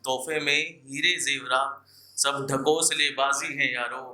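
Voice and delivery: measured, lingering poetic delivery with repeated lines; shayari recitation. Acted. Poet reciting love shayari to an audience, measured and lingering.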